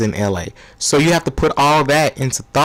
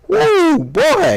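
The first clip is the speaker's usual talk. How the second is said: put-on a rising woo boy full of hype; excited whoop. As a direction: whoop it up like a fan. Hyped about LeBron teaming up.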